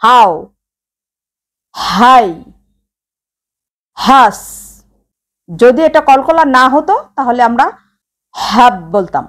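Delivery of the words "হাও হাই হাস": হাও হাই হাস said short and quick; quick soft reading. Shown as a demonstration. Teacher shows learners the quick leen reading. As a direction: clip each syllable quickly. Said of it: "তাড়াতাড়ি পড়তে হবে".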